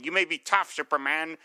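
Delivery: a hint of a gloating comic-book crook; Penguin voice. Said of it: "I'm doing my Penguin voice".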